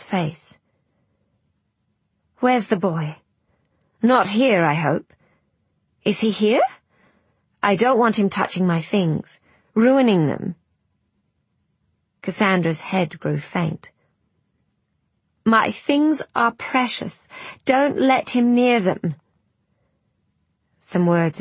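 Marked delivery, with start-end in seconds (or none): 2.4-10.5 put-on frail old woman, rising alarm; anxious grandmother fearing for her things; panicked old woman. 15.5-19.2 put-on frail old woman, rising alarm; anxious grandmother fearing for her things; panicked old woman.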